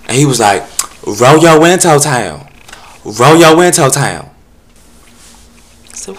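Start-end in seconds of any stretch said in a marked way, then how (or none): 1.1-4.3 higher, loud, slow lilting call; mock solicitor. Solicitor at the passenger window, loud and slow. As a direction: drag out each word, loud and sing-song.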